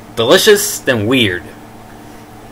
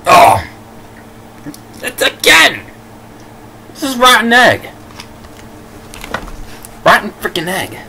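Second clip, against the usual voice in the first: eating gross jelly beans; 10 semitones higher than usual. Real, not acted. Tastes rotten egg bean.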